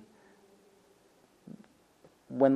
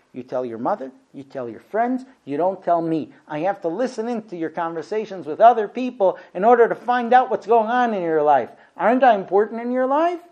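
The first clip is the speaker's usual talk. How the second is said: mock frustrated wife; 4 semitones higher, 5 dB louder than usual. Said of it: "super frustrated and say".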